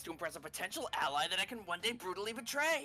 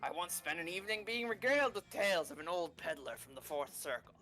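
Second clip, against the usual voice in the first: lower, measured tavern storyteller; low innkeeper voice; 6 semitones lower than usual. Acted. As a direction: speak low like a worldly traveler. Tavern character speaking.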